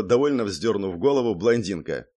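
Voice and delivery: ordinary delivery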